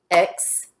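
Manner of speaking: "Excuse" as ex, long pause, cuse; "Excuse" broken apart at the syllable boundary; split syllables. Shown as a demonstration. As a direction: say "Excuse" in two detached syllables. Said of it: "How many syllables did you hear?".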